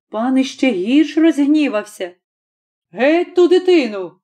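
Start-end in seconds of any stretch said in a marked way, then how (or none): 2.9-4.1 put-on master barking the child away, higher; angry lord ordering it gone; a raised, angry command; angry shout. A narrator's reading. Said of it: "гукнув".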